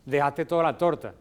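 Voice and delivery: mock-credit someone for the opposite; ironic. Shown as a demonstration. To someone who ate all the cake, lightly ironic. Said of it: "porque están utilizando la ironía".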